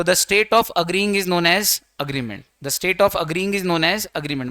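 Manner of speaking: slow, word by word dictation. Shown as a demonstration. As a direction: read it out slowly so students can write. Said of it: "teacher dictating definition slowly". (धीरे-धीरे लिखवाना)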